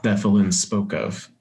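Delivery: deliberate game master narration; scene setting. Acted. Game master reveals the frozen waterfall, deliberate narration. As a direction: unveil the sight like a storyteller.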